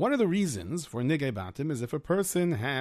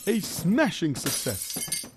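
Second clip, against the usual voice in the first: put-on worried Yiddish-accented kvetching. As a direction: complain like a hapless schlemiel. Figure narrates his mishap.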